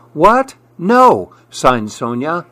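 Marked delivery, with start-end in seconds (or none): 0.1-1.3 high, startled questioning then denial; surprised denial. A narrator's reading. Sonia denies Dev is her best friend, surprised. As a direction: react with surprise, pitch leaping up.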